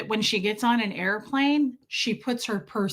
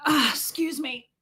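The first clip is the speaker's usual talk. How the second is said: fake-polite excuse me; 5 semitones higher than usual. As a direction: act out a sweetly fake-polite lady. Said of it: "I had to really act that out".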